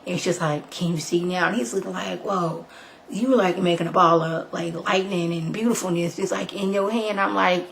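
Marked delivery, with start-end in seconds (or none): 0.7-1.5 hushed quoted question; soft retold reply. Retells Jen's soft reply. 2.2-7.2 softly acted-out awe; quiet retold wonder; hushed amazement. Retells Khalil's hushed amazement.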